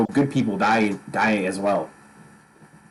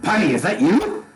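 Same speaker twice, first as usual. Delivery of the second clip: high, lively Scottish god voice; a god greeting in a Scottish accent; 10 semitones higher, much slower than usual. Acted. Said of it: "I'm trying to go a little, a little Scottish".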